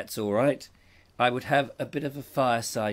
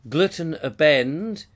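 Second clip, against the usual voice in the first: German greeting; 4 semitones higher, 6 dB louder, slower than usual. Shown as a demonstration. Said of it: "It's nice to say that".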